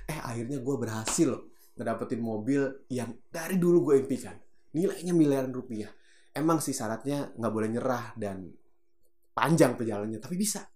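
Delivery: natural, heartfelt friend-to-friend talk; confiding in a friend; spoken with feeling. Shown as a demonstration. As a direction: tell a close friend sincerely, without shouting. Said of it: "Karena ngomongnya pakai rasa".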